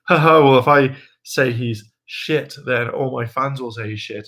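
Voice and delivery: a hint of a gloating Blake; smug mock laugh. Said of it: "he got into his head, like".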